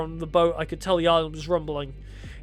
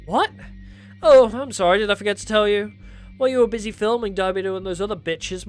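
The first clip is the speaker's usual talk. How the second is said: villain voice. Acted.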